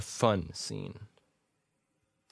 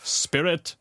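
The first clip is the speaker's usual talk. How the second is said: high, lightly pleading address; a touch of submission; submissive Scrooge; 7 semitones higher, 5 dB louder than usual. Acted. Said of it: "said Scrooge submissively".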